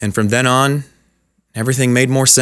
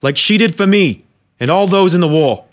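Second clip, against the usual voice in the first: words wrenched out; 7 semitones higher, 3 dB louder than usual. Acted. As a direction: heave each word out in desperation. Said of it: "vomiting the words from the deepest part of him".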